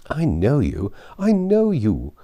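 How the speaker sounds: lightly voiced smug matron; Mrs Elton. Matron teasing a young woman she thinks she knows, smug.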